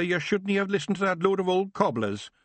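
Rob scolding his brother in broad Scots; exasperated Scottish pictsie; Scottish chieftain. Acted. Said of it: "said Rob".

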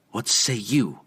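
a curt demand; mild imperious demand. Acted. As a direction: press him for an answer. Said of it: "she demanded".

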